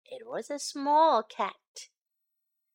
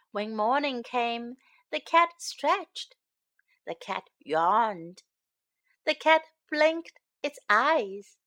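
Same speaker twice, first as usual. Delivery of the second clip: gentle storybook reading; singsong storytime narration; reading to children; 3 dB louder than usual. A narrator's reading. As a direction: read it like a bedtime picture book.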